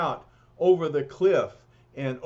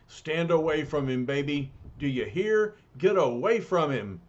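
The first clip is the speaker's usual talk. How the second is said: gruff angry warning; 4 dB louder than usual. Acted. Jealous Thing threatens surfer.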